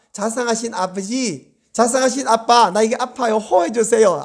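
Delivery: lightly voiced little kid wheedling dad; drawn-out, mock-sweet plea to a parent; coaxing child. Beaten son to his father, lightly voiced coaxing.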